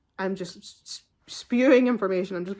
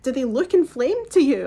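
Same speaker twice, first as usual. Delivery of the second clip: upset, near tears; 5 semitones higher, 8 dB louder than usual. Retold or imitated. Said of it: "I'm, like, crying".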